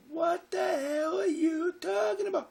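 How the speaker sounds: high, strained imitation of mother screaming; very high retold scream. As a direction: shriek it as an upset mother. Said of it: "so my mother screams".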